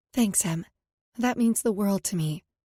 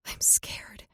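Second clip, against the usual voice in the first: whispered; 5 dB quieter than usual. A narrator's reading. Confessing fear in tears.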